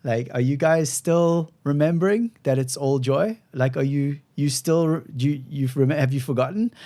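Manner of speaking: "remembering" lifted into a rising question. Retold or imitated. Ceremony leader reminding struggling people that all is joy, questioning. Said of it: "sometimes say it like a question".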